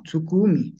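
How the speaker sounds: "Tsukumi" with a long u in ku; "Tsukumi" said as tsukuu-mi; stretched U. Shown as a demonstration. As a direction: draw out kuu before the final mi. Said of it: "Decirlo la U".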